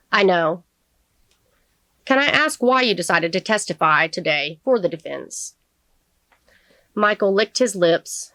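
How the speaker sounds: measured audiobook reading with clear pauses; deliberate storytelling delivery; story narration. A narrator's reading. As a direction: read the novel aloud, phrase by phrase. Reads courtroom scene from novel.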